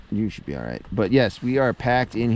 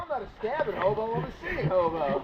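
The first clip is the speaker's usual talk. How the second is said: hobo voice; 8 semitones higher than usual. Pretend. Joking hobo character.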